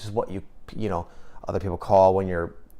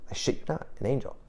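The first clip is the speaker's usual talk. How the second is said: whispered aside; 4 semitones higher, 8 dB quieter, much faster than usual. Real, not acted. Confiding aside about the angel.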